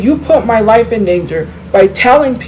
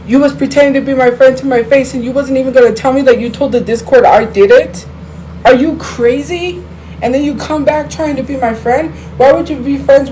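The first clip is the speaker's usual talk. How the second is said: incredulous outrage; 4 semitones higher than usual. Real, not acted. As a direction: throw it back at her, stunned she dared. Ranting at ex-friend who lied.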